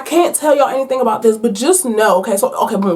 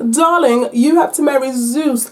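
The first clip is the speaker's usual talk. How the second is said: mother in a lightly put-on English accent; mock English accent. Ambushing mother orders her daughter to marry, mock English accent. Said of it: "they're not English, they're Greek, but I can't do that accent".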